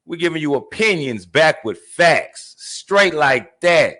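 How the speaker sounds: slow, punched host outro; show sign-off. Real, not acted. Host signing off with the show's tagline, drawn-out outro delivery. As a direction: stretch out the names and tagline.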